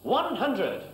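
darts score caller. Real, not acted.

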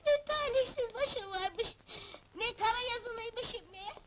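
slow, wailing self-pity; mournful lament. Acted. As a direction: bemoan your fate in long-drawn words. Rejected wife laments her fate. (ağıt yakar gibi, yavaş)

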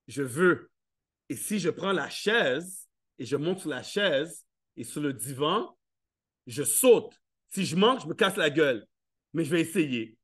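put-on scheming toddler. Toddler plotting to climb for cookies, hushed.

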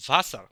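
"ভাসার" loudly with an initial v sound. Shown as a demonstration. Teacher giving the German W example, v sound in "ভাসার". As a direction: open "ভাসার" on a buzzing v. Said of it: "ডাব্লিউ এর উচ্চারণ হবে ভি এর মতো".

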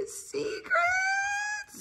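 very high, drawn-out squeal; mock-secretive high squeal; playful warning. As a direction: squeak it out soft and long. Playfully repeats warning to nephew.

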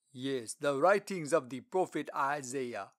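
slow, loud, stately official; Lord Treasurer voice. Acted. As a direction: speak like a dignified royal treasurer.

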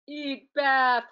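a mild, hammed-up monster roar. The monster threatening to eat the bath, a mild roar. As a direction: growl it out like a hungry beast. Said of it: "roared the monster".

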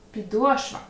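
підошва stressed on О; correct stress. Shown as a demonstration. Teacher confirms the right stress. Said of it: "Підошва чи підошва?".

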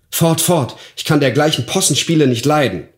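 indignant cry. A narrator's reading. Mother chasing off the ugly dwarf, indignant cry. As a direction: drive the stranger away, pitch jumping up. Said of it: "rief sie".

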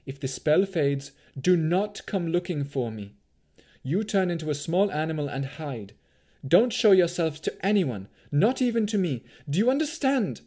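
hushing at first, building to high, loud insistence; urgent warning. A narrator's reading. Mother hiding her daughter from wolves, urgent mounting warning. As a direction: press each order harder, pitch climbing.

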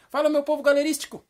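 high, loud, lively catchphrase; animated demo greeting. Shown as a demonstration. Host shows Carlos how to greet the viewers, animated shout. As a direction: belt it out like a hyped host. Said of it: "Fala assim".

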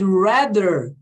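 RATHER with a long curled-back English R; stretched retroflex R in "rather". Shown as a demonstration. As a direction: hold the R at the start of "rather". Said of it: "Esse R do inglês".

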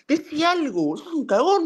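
high-pitched, exasperated challenge; heated, high-pitched taunt; angry goading. Real, not acted. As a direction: accuse your friend in a high, outraged voice.

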